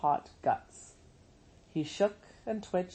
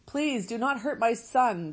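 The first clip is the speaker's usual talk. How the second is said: begging; 6 semitones higher than usual. Acted. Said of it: "begged Roz".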